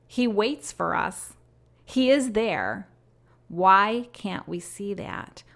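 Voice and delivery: stretched-out, solemn pleading words; devotional reading. Acted. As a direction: plead gently, as if in prayer. Reads her written prophecy aloud.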